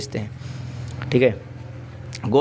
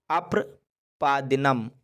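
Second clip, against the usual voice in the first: अप्रपादिनम slowly, split after अप्र; slow syllable-by-syllable; 5 dB quieter, much slower than usual. Shown as a demonstration. Teacher introducing the Sanskrit word for pants, slow and broken up. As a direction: draw out अप्रपादिनम in careful parts for learners.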